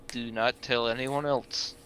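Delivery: slow, deliberate in-character order; grave warning. Acted. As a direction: impress it on them, slowly. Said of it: "I look you in the eyes and say".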